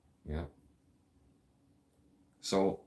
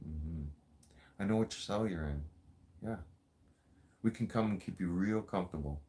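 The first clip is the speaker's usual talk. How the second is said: mock seductive coo; 3 semitones lower, 7 dB quieter than usual. Mock-seducing the new inmate.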